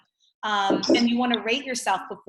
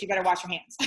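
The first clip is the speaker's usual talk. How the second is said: laughing warning; 2 semitones lower, faster than usual. Real, not acted. Joking warning before a laugh.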